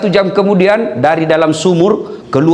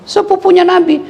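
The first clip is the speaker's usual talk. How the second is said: emphatic punchline; 14 semitones higher than usual. Real, not acted. Punchline answer.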